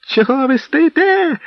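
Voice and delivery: high, slow yelled demand; wailing yell. Acted. Steward howling at his hesitating men, high yell. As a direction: howl at the frozen men. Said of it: "заволав Тіун".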